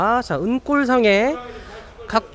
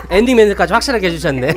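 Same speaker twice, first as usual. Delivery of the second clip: laughing; 5 dB louder than usual. Real, not acted. Laughs at owner's sign-off.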